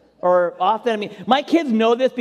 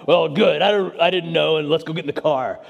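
run-on gruff backpedalling, dropping away at the end; imitated sheepish dad mumble; gruff, ashamed mumble; 2 semitones lower than usual. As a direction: cover embarrassment with gruff rambling. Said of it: "I mumbled something gruff to hide my shame".

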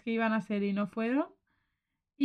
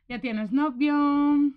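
nosy relative; 3 semitones higher, 6 dB louder, much slower than usual. Retold or imitated.

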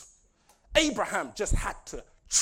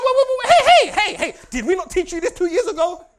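exasperated; 8 semitones higher, 10 dB louder than usual. Retold or imitated. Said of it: "we're like".

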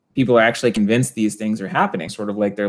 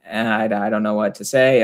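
nervous mumble; slower than usual. Retold or imitated. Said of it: "they get all nervous".

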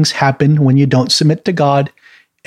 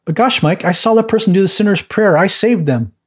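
lightly acted protest, pitched up then settling; mildly put-on insistent voice; mock protesting believer; 6 semitones higher than usual. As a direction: imitate an earnest objector a little higher. Mimics a proud soul-saving objector.

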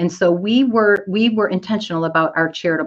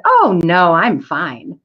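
breezy polite brush-off; 4 dB louder, much slower than usual. Retold or imitated. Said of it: "smiled real big at that person and said".

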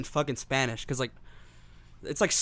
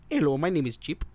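put-on Indian accent. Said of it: "their accent".

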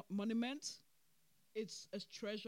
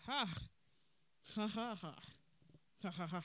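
mock laugh. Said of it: "I was like".

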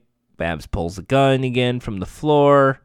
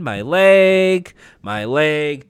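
mock pain; 3 semitones higher, 3 dB louder, much slower than usual. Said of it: "Babs is in pain".

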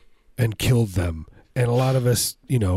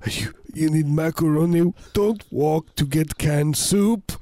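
pompous inventor's promise; 7 semitones higher than usual. Pretend. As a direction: promise it like a grandiose salesman. Continues the inventor's dream.

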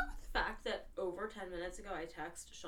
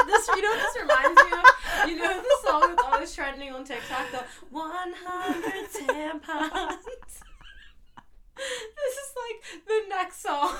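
high, loud laughing fit; laughing hard; 9 semitones higher, 13 dB louder than usual. Real, not acted. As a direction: crack up, almost crying with laughter. Cracking up at own joke.

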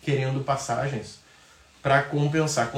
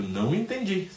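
robot voice; 5 semitones higher, 3 dB quieter than usual. Retold or imitated. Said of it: "eu sou um robô".

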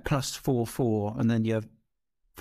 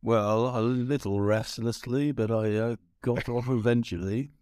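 Boris Johnson; slower than usual. Acted. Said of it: "I sound like Boris Johnson".

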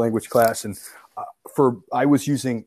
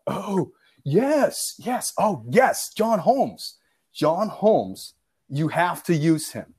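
higher, very slow, overeager pitch; mock hard sell; 6 semitones higher, much slower than usual. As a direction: ham up a salesman who has just caught on. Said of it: "I sell John Holmes hard".

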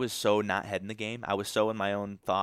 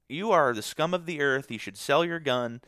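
high, loud self-scolding; self-berating inner voice; 6 semitones higher, 5 dB louder than usual. Retold or imitated. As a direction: tear yourself down, pitched way up. Berating himself in his head.

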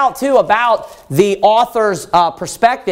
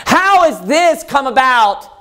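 higher, slow, stunned questions; preacher voicing the author's amazement, pitched up and slowed; astonished lament; 5 semitones higher than usual. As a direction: plead in disbelief over the ruined city. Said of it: "That's basically what he's asking".

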